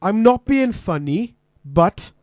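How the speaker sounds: slow, lightly Welsh lilt, rising on funny; Welsh accent. Acted. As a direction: say it with a hint of Welsh. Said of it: "If I was Welsh and I said".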